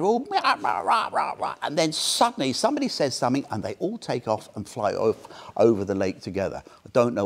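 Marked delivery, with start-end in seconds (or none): 0.3-1.5 chattering mass of crow calls; imitated crows. Thousands of crows gather in the trees, cawing imitation. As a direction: babble like a gathering rookery. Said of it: "they all gather".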